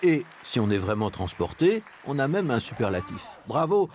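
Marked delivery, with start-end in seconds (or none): 3.5-3.9 much higher, swooping bravo; soaring concert ovation; rapturous cheer. Shown as a demonstration. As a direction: cheer as if transported. Demonstrates the superlative.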